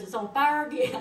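quoting him through laughter; laughing quote. Retold or imitated. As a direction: laugh out the news of the fire. Retelling car fire rekindling.

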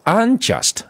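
unjust with main stress on JUST, secondary stress on UN. Shown as a demonstration. Teacher contrasts the second word for students, stress on second syllable. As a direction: say "unjust" leaning on JUST, with UN still clearly weighted. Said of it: "重读第二音节，但第一个音节属于是次重读".

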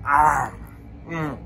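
chewing while speaking; muffled with food; mouth full. Real, not acted. Seen 1: Puts candy in mouth at 0.1, chews until 2.5, then talks clearly.

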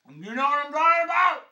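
high, loud, quick question; loud high laughing holler; laughing shout. Acted.

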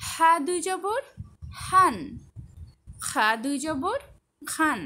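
measured drill, rising জবর answered by a falling syllable like সান; spelling recitation. Shown as a demonstration. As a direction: lift জবর at the end, then drop firmly on হান, খান, দান. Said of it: "সবগুলোর উচ্চারণ একটু দেখে নিলাম".

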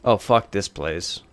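slow drawn-out disgust; exasperated. Real, not acted. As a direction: drag it out in disgust.

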